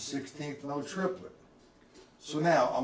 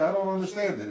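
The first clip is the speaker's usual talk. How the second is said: a humble student owning up; humble admission; 5 semitones higher, faster than usual. Shown as a demonstration. Teacher modelling what a confused student should say, humble. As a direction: say it plainly and humbly, owning the gap. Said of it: "you humble yourself and say".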